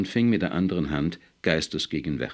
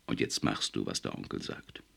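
sharp; 7 semitones lower, 6 dB quieter than usual. Acted. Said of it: "lag eine unmissverständliche Schärfe".

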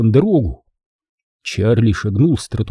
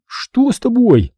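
frightened; 12 semitones higher, slower than usual. Acted. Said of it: "Голос у Бенджи дрожал от страха".

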